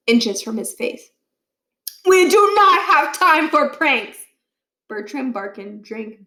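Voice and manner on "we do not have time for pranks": slow, loud, each word weighted; stern warning. A narrator's reading. Principal warning the students against pranks, slow and loud. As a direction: lay down the final rule.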